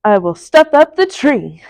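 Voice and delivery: lightly voiced sly Grinch; a hint of a gleeful villain's grin; grinning Grinch. The Grinch plotting to himself, a touch gleeful. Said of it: "grinned the Grinch".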